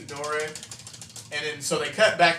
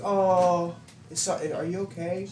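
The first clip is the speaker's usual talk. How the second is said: put-on high girly voice; 5 semitones higher than usual. Girl's high caring voice.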